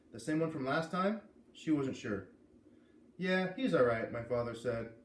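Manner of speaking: lively first-person read-aloud; story narration. A narrator's reading. A reader opening chapter one for listeners, in lively narration. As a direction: read the chapter to your audience, brightly.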